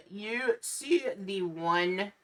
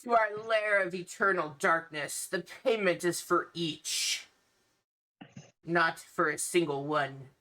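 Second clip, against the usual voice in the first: horror host. Acted. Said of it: "you hear one of the ones".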